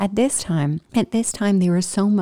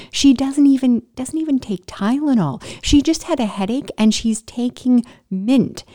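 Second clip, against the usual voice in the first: mock indignant husband, pitched up; 4 semitones higher than usual. Husband defending his wife to hospital staff, acted indignation. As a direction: protest on her behalf, emphatic and incredulous.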